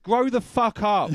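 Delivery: loud, slow, each word hammered; a preacher's loud, slow rant; emphatic outburst. Real, not acted. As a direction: tell them off with full force. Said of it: "Preach, brother".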